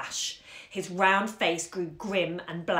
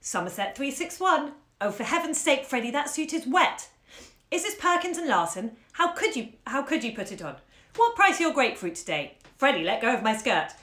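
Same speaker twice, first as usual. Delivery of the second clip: considerable warmth; 5 semitones higher, 4 dB louder than usual. Acted. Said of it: "She said with considerable warmth".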